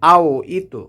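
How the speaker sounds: bouncing echo on the ت of "ইতু"; qalqalah echo. Shown as a demonstration. Teacher showing the echo letter, qalqalah bounce on "ইতু". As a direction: say "ইতু" with a rebounding consonant. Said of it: "এখান থেকে পাল্টা আওয়াজ হবে".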